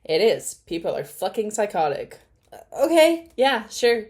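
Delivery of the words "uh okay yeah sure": high mocking "okay", louder; sarcastic eye-roll okay; scoffing, mock-agreeing okay. Real, not acted. Sarcastic reaction to reading.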